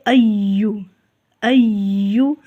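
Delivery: slow ایو with the ya held and doubled. Shown as a demonstration. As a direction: press the ya in ایو with shadda. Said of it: "ذرا تشدید کے ساتھ پڑھیں گے". (ایو میں یا پر تشدید)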